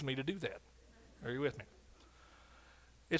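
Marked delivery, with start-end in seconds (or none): none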